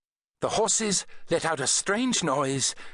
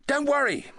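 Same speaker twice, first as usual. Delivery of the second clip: calling out; 12 semitones higher than usual. A narrator's reading. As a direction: call reassuringly over the din. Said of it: "the doctor called".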